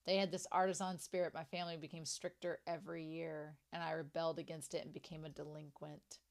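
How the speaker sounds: low, soft story reading; reading aloud. Acted. Fan reading a character's childhood flashback aloud, low and soft. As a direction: read the flashback quietly, in a low voice.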